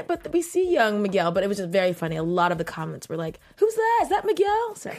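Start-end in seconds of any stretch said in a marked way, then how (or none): 3.6-4.7 confused commenters. Retold or imitated.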